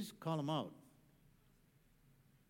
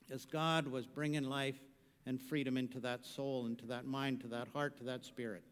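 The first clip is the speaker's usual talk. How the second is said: lower, softer reverent fade; hushed; 7 semitones lower, 6 dB quieter than usual. Real, not acted. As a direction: let each phrase sink to a hush. Hushed prayerful description.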